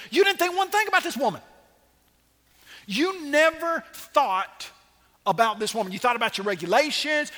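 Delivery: fiery rebuke. Acted. Preacher scolding the synagogue ruler, high and loud. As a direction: drive it home at the ruler.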